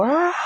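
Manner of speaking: high-pitched stretching groan; stretching noise. Retold or imitated. Teller acts out stretching to shake off panic, high stretch groan. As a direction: let out a long high stretch sound. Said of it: "I stretch, and I, and I go".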